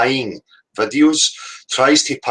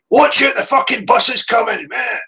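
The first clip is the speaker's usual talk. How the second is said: high furious shout, much louder; angry shout; 14 semitones higher, 4 dB louder than usual. Shown as a demonstration. Man in street yelling at you about the bus, furious shout. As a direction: yell the warning in anger. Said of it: "And he can say".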